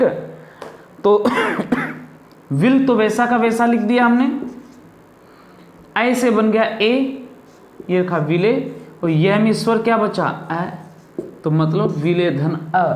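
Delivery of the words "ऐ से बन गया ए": ऐ से बन गया ए said slowly with higher pitch; teacher stressing the vowel change; slow emphasis. Shown as a demonstration. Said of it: "explaining vowel change".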